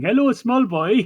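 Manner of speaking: put-on loud shout in an odd, strange Welsh accent. Stomping around a house calling for a lost boy: shouting.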